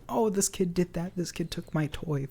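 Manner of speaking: high, soft mock child complaint; imitating tattling kid. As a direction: imitate a kid telling on someone.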